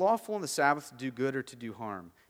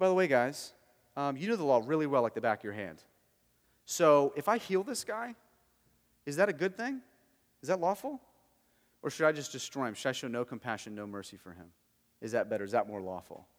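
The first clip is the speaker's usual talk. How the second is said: put-on pointed, needling tone, sarcastic throughout. Retelling Jesus questioning the Pharisees in the front row: acting out sarcastic questions. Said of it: "And then sarcastically".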